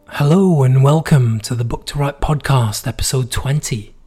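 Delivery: hoarse, worn-out voice after being sick. Real, not acted. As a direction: talk through a hoarse, tired throat. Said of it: "my vocal cords are completely destroyed".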